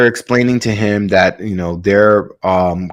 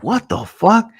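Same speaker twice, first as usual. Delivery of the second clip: acted disbelief; 12 semitones higher than usual. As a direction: play him utterly thrown by the reading. Pilot reads impossible temperature.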